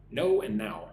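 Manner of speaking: "No" and "now" contrasted with clear vowels; pronunciation demo. Shown as a demonstration. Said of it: "pronounce no and now".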